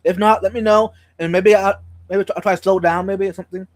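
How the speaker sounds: talking around a sore tongue; careful speech, tongue hurts; cold sore on tongue. Real, not acted. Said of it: "Vibes is talking weird tonight".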